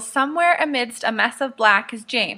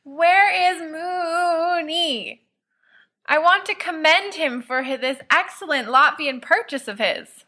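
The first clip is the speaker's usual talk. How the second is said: high, slow, hammed-up drunken toast; drunken praise; 5 semitones higher than usual. Sirius drunkenly toasting Mooney's purchase, high and gushing. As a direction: gush over him like a tipsy host.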